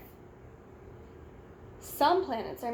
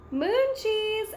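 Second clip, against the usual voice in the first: high bright cheer of moon cheese; 9 semitones higher, 4 dB louder than usual. A narrator's reading. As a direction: cheer it out for the camera. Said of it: "everyone cheers".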